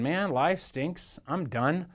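a touch of woe; mildly woeful. Acted. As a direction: voice Peter giving up, understated. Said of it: "kind of woefully thinking".

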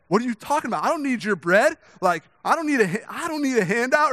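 insulted, refuse the bread hard; indignant rebuff. Retold or imitated. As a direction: homeless man hammed up as offended.

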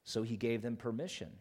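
deliberate Bible narration with weighted nouns; scripture reading. Acted. Pastor reads the Gospel story aloud, measured scripture reading. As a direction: tell it solemnly, phrase by phrase.

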